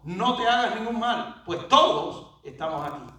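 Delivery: crying out. Retold or imitated. Preacher quotes Paul warning the jailer, moderately loud cry. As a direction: call it out, punching the first word of each phrase. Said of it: "clamó en gran voz".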